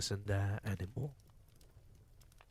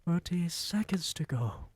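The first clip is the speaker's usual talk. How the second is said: Grand High Witch; 8 semitones higher than usual. A narrator's reading. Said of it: "cried the Grand High Witch".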